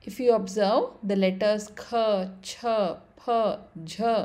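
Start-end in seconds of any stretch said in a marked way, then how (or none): 1.8-4.1 aspirated kha, cha, pha, jha; kha, cha, pha, jha one by one, breath after each consonant; more breath. Shown as a demonstration. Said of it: "more breath to pronounce".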